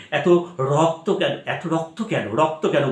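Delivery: a quiet, restrained Hashi asking এত রক্ত কেন, not yatra-style; quiet grieving line. Shown as a demonstration. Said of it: "যাত্রার form হয়ে যাবে".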